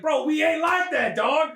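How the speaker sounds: comic indignant brush-off; mock rebuff. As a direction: push someone away with a drawn-out objection. First take of repeated rebuff.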